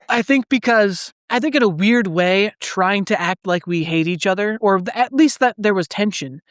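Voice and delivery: talking with hiccups; hiccuping. Real, not acted. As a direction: hiccups breaking the words. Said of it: "these hiccups are killing me".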